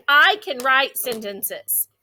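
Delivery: slow, clear model sentence; saying aloud. Shown as a demonstration. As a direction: say it slowly for children to repeat. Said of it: "say what you want to write out loud".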